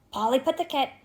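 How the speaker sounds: sleepy hollow bird voice; drowsy raven mutter. A narrator's reading. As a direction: mumble it like a dozing raven. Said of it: "muttered in his sepulchral voice".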